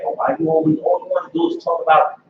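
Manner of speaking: high mock complaint from a relative; mocking family member. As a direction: whine it high like a nagging aunt. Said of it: "oh, they always get mad".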